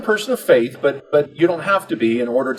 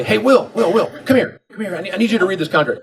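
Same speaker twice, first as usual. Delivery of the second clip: calling out; 7 semitones higher than usual. Retold or imitated. Father calling son over.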